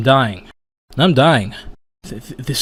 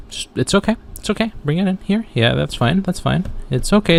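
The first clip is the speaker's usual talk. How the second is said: soothing; 2 semitones higher, 4 dB quieter, faster than usual. Acted. Fake soothing before attack.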